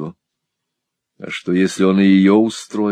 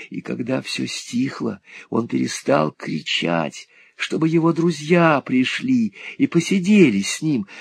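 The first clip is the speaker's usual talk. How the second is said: high, hushed, haunted telling; a scared boy recounting a death; Smike's frightened tale; 8 semitones higher than usual. A narrator's reading. Smike tells of dying boy. (Смайк испуганно рассказывает, высоко)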